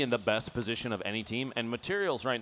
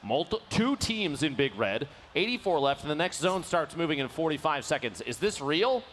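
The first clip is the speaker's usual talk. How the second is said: excited disbelief; 5 semitones higher, 3 dB louder than usual. Real, not acted. Disbelief at players left.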